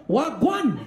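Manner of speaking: "Wagwan" cut very short in mock accent. Comic mocking how others greet Jamaicans, "Wagwan" cut short. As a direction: chop "Wagwan" off abruptly. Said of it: "Why you cut it so short?".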